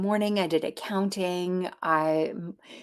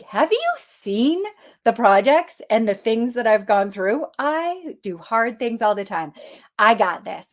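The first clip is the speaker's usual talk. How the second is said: confident; 3 semitones higher, 5 dB louder than usual. Retold or imitated. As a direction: scoff at the doubt. Boasting to higher self.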